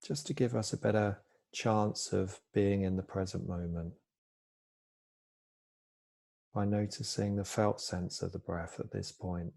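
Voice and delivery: calm, unhurried body-scan guidance with long pauses; soft-spoken mindfulness teacher, easing each phrase down; guided meditation. Real, not acted. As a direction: gently guide listeners into stillness, pausing between phrases.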